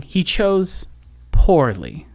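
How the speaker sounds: a hint of the grave old knight judging; old Templar knight. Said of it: "of the old Templar saying".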